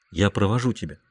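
put-on low, soft young man; quiet offer to walk her home; Antonio offering. A narrator's reading.

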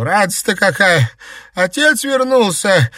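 high, loud joyful cry; overjoyed. Acted. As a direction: shout the good news with joy. Grandmother overjoyed at return.

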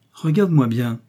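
menacing captain. Acted. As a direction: stare him down with your voice. Bork addresses prisoner.

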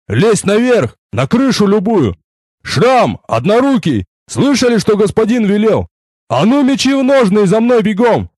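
growling shout. Acted. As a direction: roar the orders at the men. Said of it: "зарычал".

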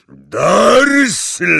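a huge high booming shout; thundering. Acted. Hagrid to Vernon, thundering shout. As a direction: thunder his name across the room. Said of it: "zagrzmiał".

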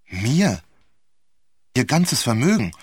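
fassungslose, laute Rückfrage; ungläubig staunen, die Stimme schnellt hoch; wie vom Donner gerührt. A narrator's reading. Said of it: "wie vom Donner gerührt". (völlig verblüfft)

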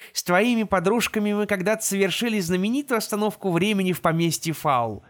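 computer navigator voice; gps voice. Acted. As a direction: talk like the van's navigator. Navigator speaks to Жеребкинс.

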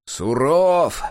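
loud, drawn note of pride; boastful admiration. A narrator's reading. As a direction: boast about the boss. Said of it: "словно бы похвастался Ухмыл".

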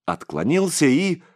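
ordinary delivery, nothing marked

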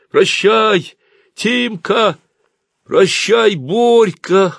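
high, loud, drawn-out goodbye; long high calls over distance; shouted farewell. A narrator's reading. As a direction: call goodbye to a departing friend. Friends shout farewell across departing train.

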